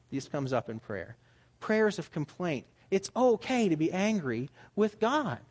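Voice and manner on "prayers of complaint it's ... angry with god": ordinary talk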